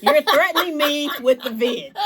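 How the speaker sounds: can't believe it, laughing it out; laughing disbelief. Real, not acted. Disbelief at being threatened.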